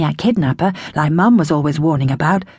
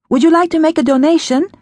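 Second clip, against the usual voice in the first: high sweet stranger voice; relentless eerie caller; 9 semitones higher, 4 dB louder, faster than usual. A narrator's reading. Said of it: "the voice said".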